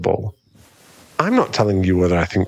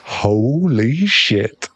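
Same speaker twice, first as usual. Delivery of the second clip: mock shock; 3 semitones higher, much slower than usual. Reacting to "daddy" slip.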